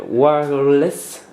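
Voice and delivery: "wireless" drawn out very slowly with a French accent; careful, slowed French-accented "wireless"; French-accented English. Shown as a demonstration. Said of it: "Excusez mon accent".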